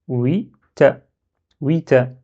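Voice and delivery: "Oui, ta" as two plain syllables; without shadda. Shown as a demonstration. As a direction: open "Oui", then a separate simple "ta". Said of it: "vous enlevez shadda".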